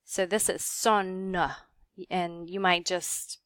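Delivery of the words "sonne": "son" with a gentle uh on the end; pronounced final E. Shown as a demonstration. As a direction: add a small second syllable to "son", like son-uh. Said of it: "gentle kind of uh sound at the end".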